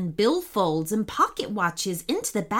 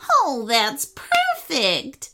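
put-on delighted old lady; 4 semitones higher, much slower than usual. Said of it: "said the elderly lady, clapping her hands".

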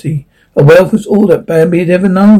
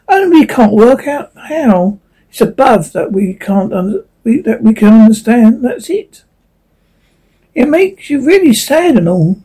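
a hint of a wistful leaf, higher; lightly voiced sad leaf; 5 semitones higher than usual.

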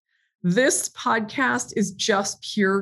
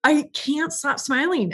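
smiling voice; 2 semitones higher than usual. Real, not acted. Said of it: "can you hear the smile coming through my voice".

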